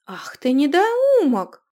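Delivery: high, loud, slow outraged cry; furious insult. Acted. Runika snaps at the insolent youth in fury. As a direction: spit the insult out in rage.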